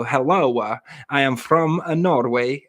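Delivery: mock Norwegian accent. Joker showing off one all-purpose accent as requested, mock Norwegian. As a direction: joke foreign accent passed off as Norwegian. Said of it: "Do Norwegian".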